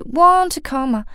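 want to blended into wanna; linked want to. Shown as a demonstration. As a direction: join the to and to of "want to". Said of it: "want的to和to的to连在一起". (把want和to连读)

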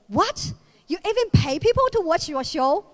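mock disbelief, voice jumps on What; incredulous friend. Friend learns she pays to perform, mock incredulous. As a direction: play the shocked friend lightly.

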